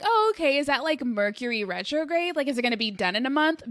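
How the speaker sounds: brightly innocent, no idea what's coming; guessing Saturn return is just a quick Mercury retrograde; naive surprise. Retold or imitated. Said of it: "And I'm like".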